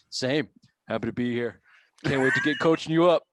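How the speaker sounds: deadpan coach voice; Belichick monotone. Retold or imitated. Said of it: "he was still in monotone".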